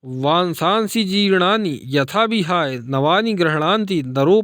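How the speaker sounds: steady Sanskrit verse chant; measured shloka reading; Gita recitation. A narrator's reading. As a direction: recite like scripture on the radio. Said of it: "radio की आवाज़ को और तेज".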